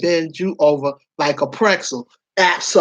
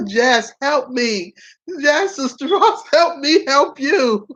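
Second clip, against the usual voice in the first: slow, drawn-out plea for help, higher; laughing plea for help; 5 semitones higher, slower than usual. Real, not acted. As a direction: beg a friend for help through laughter. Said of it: "calling out to Jess for help".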